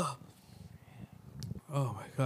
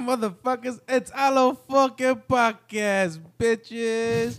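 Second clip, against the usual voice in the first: hyped podcast host yelling the intro; hype intro shout; 4 semitones higher than usual. Real, not acted. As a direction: shout the show's opening like a host.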